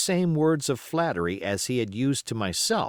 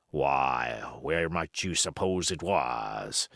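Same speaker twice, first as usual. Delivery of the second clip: derisive; 6 semitones lower, slower than usual. Acted. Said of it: "asked Silver derisively".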